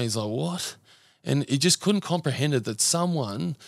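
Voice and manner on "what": a high, rising stunned "What?". Retold or imitated. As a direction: imitate a friend who can't believe it. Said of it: "Keezy was blown away".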